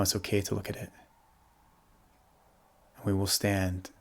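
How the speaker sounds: calm, softly settling meditation voice with long pauses; guided meditation. Real, not acted. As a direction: guide them gently into the body, leaving space to breathe.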